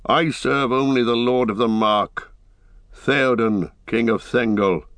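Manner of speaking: lightly voiced formal declaration; proud rider. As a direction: state your allegiance with pride. Eomer declares allegiance.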